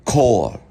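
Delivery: "Chor" with a hard K at the start. Shown as a demonstration. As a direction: demonstrate German "Chor", opening on K. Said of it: "C can be pronounced as a K".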